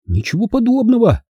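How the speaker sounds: high-pitched little squeak; small boy's high peep. A narrator's reading. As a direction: squeak out a denial. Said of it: "пискнул Бенджамин".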